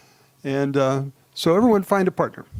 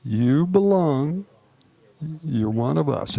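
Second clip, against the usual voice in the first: slow, tender; slower than usual. Shown as a demonstration. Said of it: "So just say those three".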